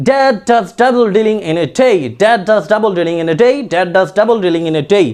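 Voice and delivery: slow careful tongue twister; slow tongue twister practice; slow tongue twister drill. Shown as a demonstration. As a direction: say it slowly so the class can follow. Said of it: "And another one is".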